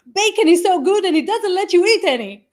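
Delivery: imitating a little kid's high, loud wail; mock tearful child complaint; crying toddler. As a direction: whine it like an aggrieved toddler. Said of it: "And he starts crying".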